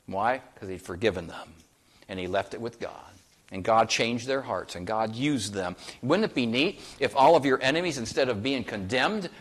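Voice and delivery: usual speaking voice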